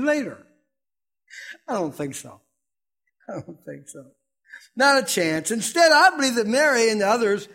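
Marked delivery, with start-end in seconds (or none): 3.3-4.0 much softer, dropping to near nothing; hushed repeat. Shown as a demonstration. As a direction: let the repeat fall away quietly. Repeated dismissal, softer second take.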